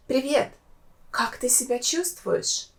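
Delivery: soft, caring concern for a sick friend; sympathetic intonation. Shown as a demonstration. Asking a sick person how they feel, softly sympathetic. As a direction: ask gently, as if they're unwell. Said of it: "with appropriate sympathetic intonation".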